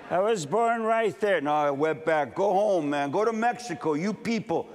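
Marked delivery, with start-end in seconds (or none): 0.1-1.4 put-on child protesting. Child answering bullies. 2.4-4.7 put-on kids' taunt. Kids taunting a brown child.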